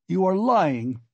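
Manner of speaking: high, forceful accusation; unrestrained roar. A narrator's reading. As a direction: roar it in acted rage. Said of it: "roared Raskolnikov without restraint".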